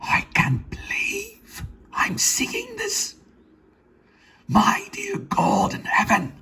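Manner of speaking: slow, high, choked whispery cry; near tears. Acted. Gerald awestruck at the tattoo, high tearful whisper. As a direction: drag it out on the edge of weeping. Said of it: "near tears".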